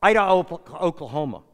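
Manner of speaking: short, curt retold answer; imitated terse reply. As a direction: answer tersely to end the chat. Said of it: "in a terse voice".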